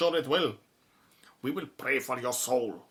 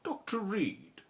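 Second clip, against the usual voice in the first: hushed breathy opening; whispered greeting; 5 semitones higher, slower than usual. Acted. Caller whispering to Doctor Reed over the phone. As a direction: whisper her name down the line.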